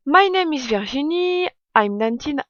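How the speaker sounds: heavily French-accented English letter reading. Real, not acted. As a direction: read the English carefully, thick French accent. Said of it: "Désolée pour mon accent, je sais qu'il est très mauvais".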